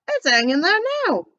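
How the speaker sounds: put-on high call in a street-boy accent; boy's accent. The boy hollering back up to Scrooge. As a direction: shout back like a young lad. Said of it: "doing an accent for him".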